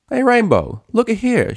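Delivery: loud, high call across the room; Applejack calling. Acted. Applejack calls Rainbow to see the device, loud. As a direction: call her over, excited.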